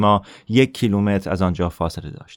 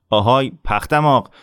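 raised, sneering call; bully's taunt; 4 semitones higher, 4 dB louder than usual. Acted. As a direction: jeer at the smaller boy.

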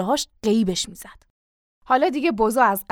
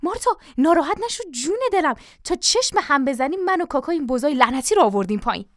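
higher-pitched, wheedling reassurance; butter up the wife in a hurry; coaxing, ingratiating appeasement; hurried flattery; 4 semitones higher than usual. Acted. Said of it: "با لحنی چاپلوسانه به عجله گفت".

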